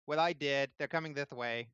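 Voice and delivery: put-on high kid voice, eager; a boy proud of his lookout; tiefling boy.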